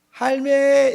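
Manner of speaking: high, loud Gyeongsang call with held last syllable; Gyeongsang dialect. Shown as a demonstration. Preacher showing Gyeongsang greeting to grandma, high dialect call. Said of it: "이렇게 하면".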